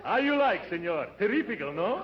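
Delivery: hammed-up Brazilian accent. Disguised uncle greeting the receptionist, mock Brazilian accent. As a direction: play the suave Brazilian baritone. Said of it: "don't forget your Brazilian accent".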